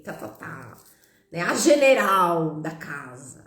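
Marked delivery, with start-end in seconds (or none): 1.4-3.4 mock stern title. Labels the bossy woman.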